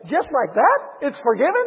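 excited questioning as the forgiven debtor; acted elation. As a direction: ask as if overjoyed and amazed. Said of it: "This individual is elated".

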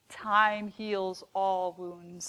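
slow, condescending, talking down; drawn-out patronizing platitude. Retold or imitated. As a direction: soothe them like a know-it-all. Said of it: "said in a very patronizing voice".

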